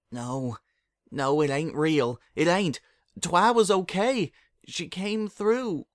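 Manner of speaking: frantic denial, then slowing; desperate denial. Acted. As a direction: refuse to believe it, voice climbing. Applejack in denial at bedside.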